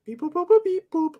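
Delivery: high beeping robot. Pretend. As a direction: beep like a toy robot. Playful robot noises.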